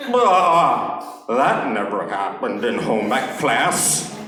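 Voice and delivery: a light Forrest Gump voice, slow on the second line; Forrest Gump impression. Comic does his Forrest Gump grabbing Jenny, lightly voiced. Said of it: "here's my impression of that".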